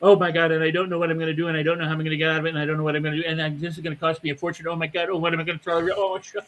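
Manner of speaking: mock panicked rambling, rushed; anxious spiral. Imitating someone spiralling into worry, rushed. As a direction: rattle off worries, spiralling. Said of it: "go down the rabbit hole of negativity going".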